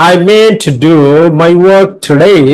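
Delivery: stresses on "meant", "work" and "today", drawn out; teacher modelling the stressed words "meant", "work", "today"; stress and intonation demo. Shown as a demonstration. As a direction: recite it with clear beats on "meant", "work" and "today". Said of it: "ইন্টোনেশনের ব্যবহার করতে বলছে".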